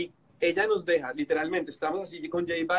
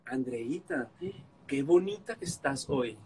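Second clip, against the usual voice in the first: flattering; 3 semitones lower, slower than usual. Retold or imitated. Flattering her to make up.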